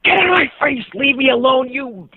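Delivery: very high, loud acted explosion; venomous outburst. Cyclist hits his limit with the kid, furious acted shout. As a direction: explode at full tilt, cutting off before the curse. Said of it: "just the kind of venom".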